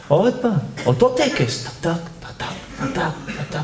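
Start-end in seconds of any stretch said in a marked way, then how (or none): 1.8-3.5 quiet staccato "tek tek"; imitated clicking steps. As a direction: tick off the routine softly. Imitates the repeated ritual. (תקתוק שקט וקצבי)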